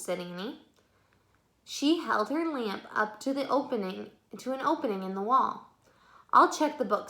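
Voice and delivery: steady, unhurried read-aloud voice; story narration. A narrator's reading. Reading the book aloud to children, gentle storytelling. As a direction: read the chapter to young listeners.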